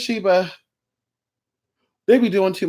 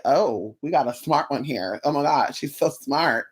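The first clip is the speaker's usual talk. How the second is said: lower, softer sarcastic smart-guy voice; mock pompous guy; 4 semitones lower, 5 dB quieter than usual. The catcaller switching to a snooty tone, lower and softer. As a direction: imitate him turning snooty. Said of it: "now your dialect is changing".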